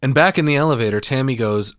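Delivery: normal talking voice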